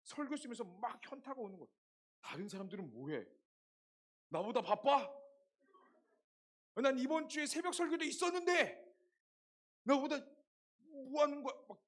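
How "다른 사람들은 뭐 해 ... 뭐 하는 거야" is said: louder and higher, a venting rant; exasperated loud complaining; irritated outburst. Retold or imitated. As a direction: blow up in frustration at everyone else. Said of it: "온갖 짜증, 짜증이 나요".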